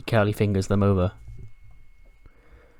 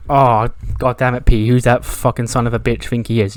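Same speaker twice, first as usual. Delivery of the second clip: heated rant; 5 dB louder than usual. Retold or imitated. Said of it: "Bobby Lashley's heated".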